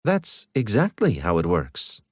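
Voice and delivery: a touch of calm AI certainty; lightly voiced ship AI, matter-of-fact; ship's AI contradicting the major, lightly voiced, calm; ship countering. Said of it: "the ship countered".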